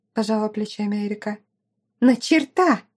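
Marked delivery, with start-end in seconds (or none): 2.0-2.8 high, loud hysterical cry; hysterical shout. Acted. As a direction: stress on черта, hysterical. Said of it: "истерила Аделла".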